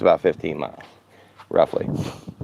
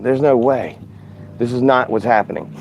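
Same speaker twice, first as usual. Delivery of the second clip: retold disbelief; 5 semitones higher than usual. Retelling his disbelief at empty containers.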